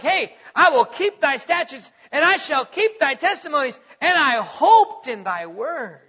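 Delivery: loud, slowing at the end; earnest plea. Acted. Preacher voicing David's vow to God, loud and earnest. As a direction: plead it from the heart.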